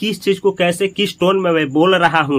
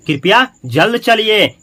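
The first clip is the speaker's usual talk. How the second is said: slow polite request; 4 semitones higher, slower than usual. Shown as a demonstration. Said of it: "last में please".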